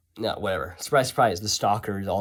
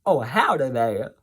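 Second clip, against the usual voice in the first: Southern accent; 3 semitones higher, 5 dB louder, slower than usual. Shown as a demonstration. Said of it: "I could be Southern".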